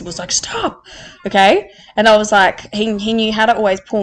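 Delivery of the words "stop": a booming, godlike Stop from on high; big Jesus God voice. Retold or imitated. Mentor telling her to stop, in a big Jesus God voice. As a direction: play the almighty commanding her to halt. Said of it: "in a big Jesus God voice".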